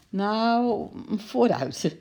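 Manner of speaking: mild, indulgent giving-in; half sighing, half laughing. A narrator's reading. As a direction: give in with a lifted voice. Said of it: "zei ze half zuchtend, half lachend". (toegeeflijk, half zuchtend, half lachend)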